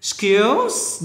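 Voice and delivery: Skills with a clear final S. Shown as a demonstration. Teacher stressing the S in Skills. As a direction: hiss the S at the end of Skills. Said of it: "Nhớ âm S này".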